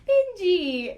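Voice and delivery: high excited shout of a name; excited call. Retold or imitated. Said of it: "I'd be like".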